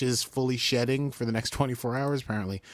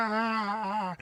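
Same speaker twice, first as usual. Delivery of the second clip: high, drawn-out "aah" without extra volume; mock scream; 11 semitones higher than usual. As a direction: imitate a scream, held long and high. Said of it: "he's screaming as he gets eaten".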